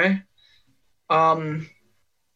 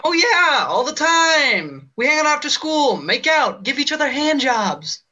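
character read; 6 semitones higher than usual. Acted.

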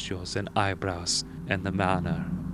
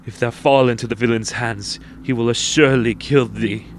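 fearful inner thought; 3 semitones higher, 7 dB louder than usual. Acted.

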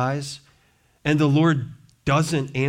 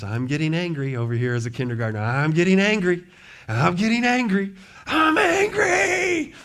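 imitating a kindergartner; 4 semitones higher than usual. Pastor imitating a kindergartner in Sophie's class, whiny wail. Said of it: "the little guy in Sophie's class".

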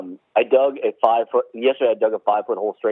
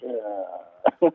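weary groan; 3 semitones lower, 4 dB quieter than usual. Retold or imitated.

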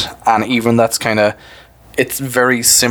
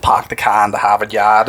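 Boston accent with dropped R's. Shown as a demonstration. Co-host illustrating Boston speech, Boston accent. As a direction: drop every R like a Bostonian. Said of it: "does not pronounce its R's".

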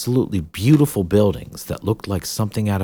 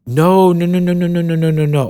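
higher, louder string of nos; emphatic denial; 11 semitones higher, 7 dB louder than usual. Acted. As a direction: shake it off insistently. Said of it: "Ceridwen shook her head".

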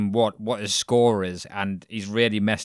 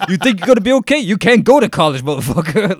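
loud, high, hammed-up angry hood dad; 8 semitones higher, 8 dB louder than usual. Hood dad pushing his daughter at sport, angry yelling. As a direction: yell at your kid like a hammed-up tough dad. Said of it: "a dad from the hood going".

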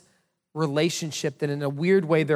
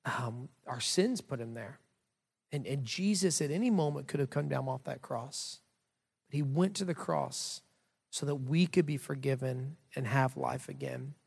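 gentle explanation; 6 dB quieter than usual. Retold or imitated. Dad answering his tearful son about the cross, gentle. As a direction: explain it quietly and tenderly, with pauses.

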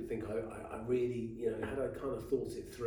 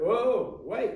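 surprised exclamation; 10 semitones higher, 7 dB louder than usual. Retold or imitated. Promo guys reveal more bags.

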